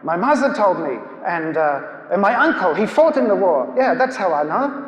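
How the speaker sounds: put-on halting German-accented reply. German emigrant puzzled over how he knows, German accent. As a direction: imitate a puzzled German man finding his answer. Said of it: "he spoke with a German accent".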